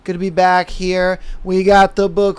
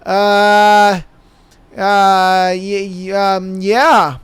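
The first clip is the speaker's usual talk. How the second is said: halting, stuck stammer of a stoned clerk; much slower than usual. Retold or imitated. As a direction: fumble for words, totally out of it. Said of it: "And I'm like".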